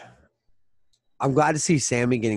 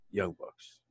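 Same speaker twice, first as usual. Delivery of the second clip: despairing; 4 semitones lower, 10 dB quieter than usual. Retold or imitated. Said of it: "just so despairingly, depressingly".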